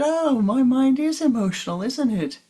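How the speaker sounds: high, loud laughing confession; delighted admission. Retold or imitated. Student confessing to guru, laughing and loud. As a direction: blurt it out with a laugh.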